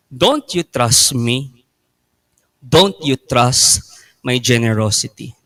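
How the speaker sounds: God's gentle question. Acted. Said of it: "God is asking us".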